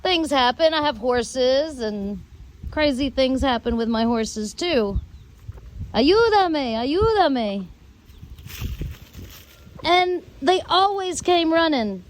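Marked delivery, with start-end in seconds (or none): 5.9-7.6 mild mock shout, calling twice; a light imitation of calling neighbors for help; retold call for help. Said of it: "I would scream to the neighbors".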